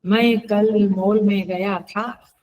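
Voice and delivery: word by word, slowly; slow example sentence. Shown as a demonstration. Teacher reads the example sentence slowly to students. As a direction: set each word apart for the class. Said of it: "इस तरह से वाक्य में भी".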